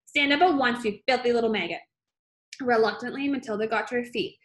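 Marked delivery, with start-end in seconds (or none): 0.0-1.8 barked command, a bit louder; stern yell. Acted. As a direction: snap it at the girl like a tyrant. Headmistress barking at child.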